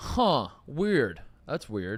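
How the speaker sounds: sarcastic, mocking tone. Answering another speaker's point about the media: sarcastic mocking tone. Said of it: "Why are you mocking that?".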